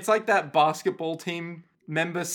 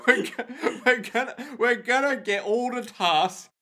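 put-on English accent through a laugh; half-laughing mock English geezer; hammed-up pan-English accent. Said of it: "talk like a couple of English people".

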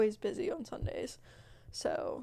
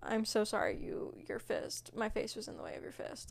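meek apology; 6 dB quieter than usual. Retold or imitated. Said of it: "you'd probably be like".

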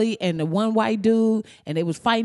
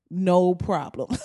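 eager yes; slower than usual. Real, not acted. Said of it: "If you want me to act in something".

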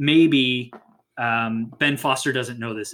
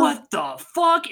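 much higher, slow, voice cracking on the curse; 14 semitones higher, slower than usual. Retold or imitated. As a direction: let the voice crack up high in shock. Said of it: "And his voice cracks again".

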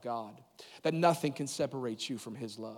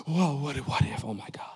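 mock fearful gasp; 3 dB louder than usual. Preacher acting out a fearful listener's gasp and worry. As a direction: act startled and scared.

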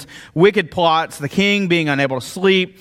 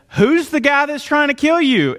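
king's demand; 10 semitones higher than usual. Retold or imitated. Pastor voicing the king in story.

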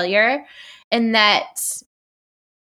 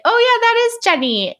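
excited recognition; 13 semitones higher, 4 dB louder than usual. Retold or imitated. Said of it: "she's like".

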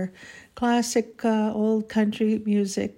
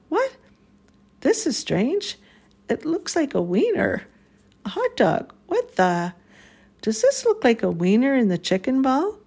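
surprised disbelief; 4 semitones higher than usual. Acted. Finding a wiener in her food.

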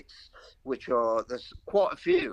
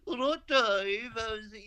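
much higher, slow mock Black Country greeting; mimicked Black Country accent; 11 semitones higher than usual. Callers ringing up, mimicking his Black Country accent, slow and high. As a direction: stretch out the Black Country hello, pitched high. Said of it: "I don't mind mimicking it".

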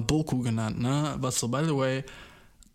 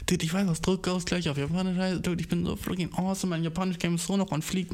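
smug excited inner voice; 4 semitones higher than usual. Retold or imitated. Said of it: "weil ich war so".

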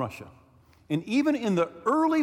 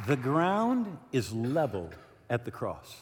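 solemn slow; 4 semitones lower, 4 dB quieter, slower than usual. Acted. Solemn repeated key line.

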